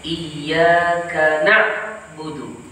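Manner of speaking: na'budu with a hard stop at the ain, recited slowly. Shown as a demonstration. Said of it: "Berhenti atau sakta pada huruf ain". (berhenti pada ain na'budu)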